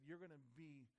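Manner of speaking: soft, grave voice of the Father; solemn Father. Retold or imitated. Father telling the Son his mission, soft and grave. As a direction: speak it like a heavy charge to a son. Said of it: "the Holy Father looked at his Son and said".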